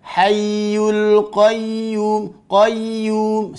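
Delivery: HAYYUL QAYYUM with a long glide and no pressed Y; ya without doubling. Shown as a demonstration. Teacher showing what to avoid, undoubled ya. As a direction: say QAYYUM as if it had a single Y. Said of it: "Seakan-akan tidak bertasydid".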